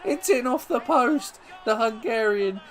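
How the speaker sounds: loud, high, drawn-out commentator's roar; excited goal shout. Real, not acted. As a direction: belt out the goal as it goes in. Shouting as the player scores.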